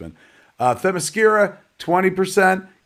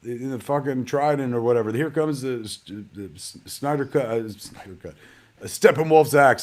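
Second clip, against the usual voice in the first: slightly raised mock director's call-out, stumbling over cues; imitated calling out; 2 semitones higher than usual. Director calling out imaginary effects on set, mock calling out. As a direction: lightly imitate a director cueing unseen effects. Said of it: "you see Zach literally calling out".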